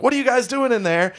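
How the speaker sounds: a high, lightly voiced mock guard calling through the door; security guard. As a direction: bark it at the stall like a guard. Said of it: "And they're like".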